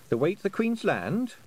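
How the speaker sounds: a lightly voiced girl asking the way; young girl asking. A narrator's reading. Tiffany's girl voice.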